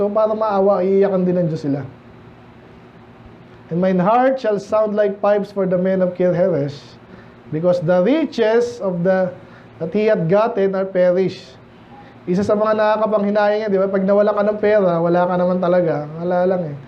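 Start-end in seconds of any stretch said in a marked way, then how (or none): 3.7-11.6 slow, measured Bible reading; scripture reading. Acted. Pastor reading Isaiah to the congregation, slow and solemn. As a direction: read the verse slowly and solemnly.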